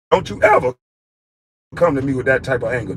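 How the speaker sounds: ordinary talk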